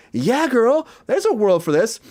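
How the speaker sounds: high, sassy mock agreement; sassy Yeah girl. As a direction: camp it up like a girlfriend. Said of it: "which I'm like".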